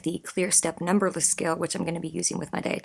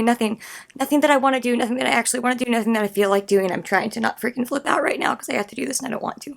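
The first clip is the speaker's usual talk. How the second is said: imitating her own louder, higher flustered rush; flustered panic; 4 semitones higher, 3 dB louder than usual. Retelling how she brushed off her husband, mock panicked. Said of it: "my instant response was to leave the room fast and say".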